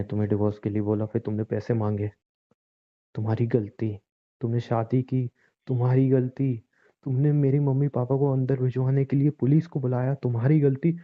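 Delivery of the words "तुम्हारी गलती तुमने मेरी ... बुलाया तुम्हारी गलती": each "your fault" louder and sharper; accusing anger. Acted. Husband throwing every fault back at his wife, building anger. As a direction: hammer the blame home, building.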